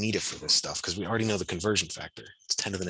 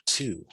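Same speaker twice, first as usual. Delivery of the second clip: "to" lifted higher after a thoughtful ah; stressed keyword; 4 semitones higher than usual. Shown as a demonstration. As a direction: spotlight "to" as the clue. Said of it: "This is a keyword".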